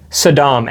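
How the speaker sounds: "Saddam" with the second syllable stressed; mispronounced like Saddam. Retold or imitated. Co-host echoing her slip, "Saddam" stressed at the end. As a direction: say "Saddam" as suh-DAHM. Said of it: "as in Hussein".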